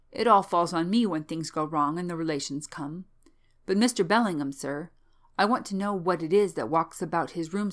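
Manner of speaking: lively servant voice with emphatic bursts; concerned old manservant. Acted. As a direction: plead your case respectfully as a fussing old servant. Old manservant insists on his concern.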